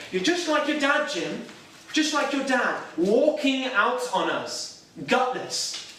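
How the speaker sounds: mock-yell at a son, slowing on the blame; retold screaming. Mother berating her son at rehearsal, mock-shouted. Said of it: "she starts screaming at me".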